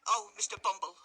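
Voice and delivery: flustered matron crying out; lady crying out. Acted. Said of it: "cried the lady".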